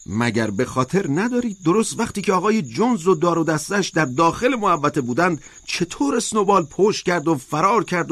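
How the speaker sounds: high, emphatic protest; insistent high-pitched oration, not a full shout; crying out. A narrator's reading. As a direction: argue it high and forcefully, like a rousing speech. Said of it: "اسکویلر فریاد کشید".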